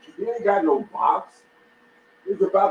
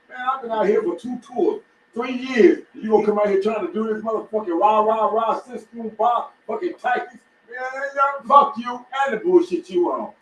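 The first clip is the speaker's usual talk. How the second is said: angry veteran; 4 semitones higher than usual. Retold or imitated. Voicing an angry veteran soldier.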